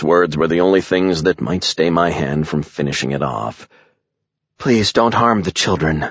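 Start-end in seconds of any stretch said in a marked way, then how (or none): 4.6-6.1 eerie, almost human alien plea; telepathic voice. A narrator's reading. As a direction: plead in a strange, otherworldly voice. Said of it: "sounded almost human despite its peculiar stereo-like quality".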